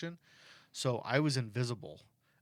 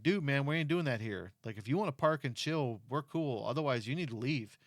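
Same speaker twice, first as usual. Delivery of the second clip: mild mock yell; 4 semitones higher, 4 dB louder than usual. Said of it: "people keep coming up yelling at him".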